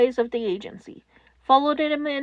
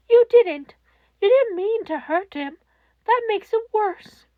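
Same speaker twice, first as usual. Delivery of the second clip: higher, louder cold fury; angry rebuke; 7 semitones higher, 4 dB louder than usual. A narrator's reading. Netsu scolding Toshinori for hurting the boy, angry and higher. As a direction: scold him without mercy.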